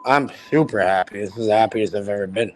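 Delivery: words running together, tipsy; slurring words. Real, not acted. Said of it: "You're, you're slurring your words so bad".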